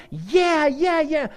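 high, loud eager agreement; eager yes. Retold or imitated. Israel cheering David on, high and eager. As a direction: nod along all in.

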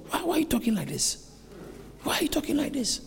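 acted, high-pitched remonstration; acted protest. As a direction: object as if baffled by a friend's words. Acts Peter protesting to Jesus.

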